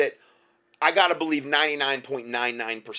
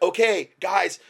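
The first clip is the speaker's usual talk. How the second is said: excited; 7 semitones higher, 3 dB louder than usual. Retold or imitated.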